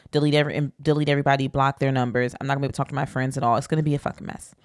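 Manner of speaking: fast, run-on worried inner monologue; retold panic. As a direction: rattle off the mounting disasters in mock panic. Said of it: "panicking 'cause I'm like".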